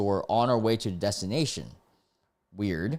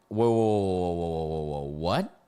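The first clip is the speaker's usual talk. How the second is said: startled; 4 semitones lower than usual. Real, not acted. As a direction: run of whoas ending in a rising what. Shocked reaction to the story read.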